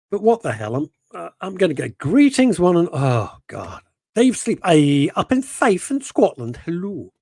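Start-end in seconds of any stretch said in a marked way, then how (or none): 2.0-6.6 higher, louder grand announcer; hammed-up grand proclamation; grand greeting voice. Mimicking a viewer's chat message as a grand herald. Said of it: "he doesn't talk like that at all". 6.7-7.1 grand hello. Retold or imitated. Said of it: "he doesn't talk like that at all".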